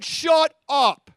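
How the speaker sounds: loud scolding shout; crowd shouting. Acted. Congregation voicing the crowd hushing Bartimaeus, loud shout. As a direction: bark it like a crowd silencing him. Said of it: "And all the people said".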